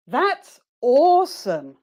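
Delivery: high, slow "That's awesome"; exaggerated positive drill on "awesome"; voice goes up. Shown as a demonstration. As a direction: lift "awesome" high and stretch it. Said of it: "their voice goes up".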